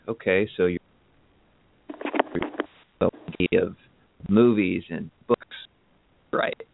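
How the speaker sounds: choppy call audio cutting out; words dropping out on a bad line; breaking up. Real, not acted. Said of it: "You're, you're breaking up quite a bit".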